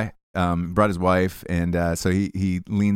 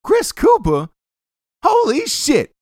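high, loud, laughing celebrity impression; Samuel L. Jackson; 5 dB louder than usual. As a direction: belt it out with a laugh like a movie star. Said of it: "just stops him and he goes".

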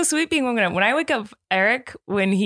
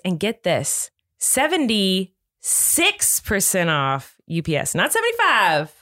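podcast ad read. Acted. Reads podcast sponsor ad.

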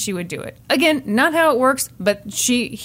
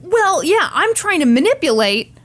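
stuttering; 7 semitones higher than usual. Retold or imitated. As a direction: stumble over the words, caught out. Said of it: "he starts stuttering".

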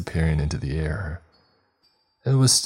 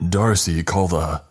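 shouting for help; 2 semitones higher, 4 dB louder than usual. Acted.

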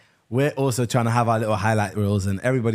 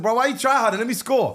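mock complaint; 11 semitones higher, 3 dB louder than usual.

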